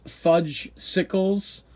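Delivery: "fudge sickles" slowly in two parts; slow, separated "fudge ... sickles"; careful word correction. Retold or imitated. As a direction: say "fudge sickles" with both halves drawn apart. Spelling out a viewer's word.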